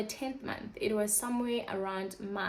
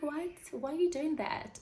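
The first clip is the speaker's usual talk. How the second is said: shocked disbelief; 7 semitones higher than usual. Retold or imitated. Doctor offers contraceptives.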